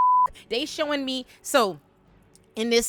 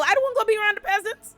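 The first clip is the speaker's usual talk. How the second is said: spoiled whine; 4 dB louder, much faster than usual. Retold or imitated. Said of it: "Aegon was like".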